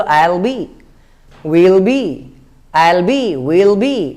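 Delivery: I'll be, will be blended short; short contracted I'll. Shown as a demonstration. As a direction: say I'll be as one quick unit. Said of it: "तो ऐसा बोलो". (छोटा करके बोलो I'll be)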